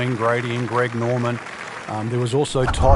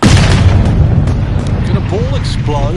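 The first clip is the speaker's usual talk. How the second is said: excited; 5 semitones higher, 11 dB louder, much slower than usual. Real, not acted. Huge drive, amazed commentator.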